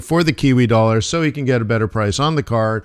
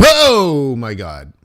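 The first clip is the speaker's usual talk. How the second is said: drawn-out oh my God; much slower than usual. Real, not acted. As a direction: stretch it out in disbelief. Reacting to a trade result.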